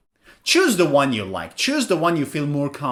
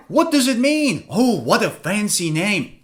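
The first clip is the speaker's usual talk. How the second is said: mock surprise; 3 semitones higher than usual.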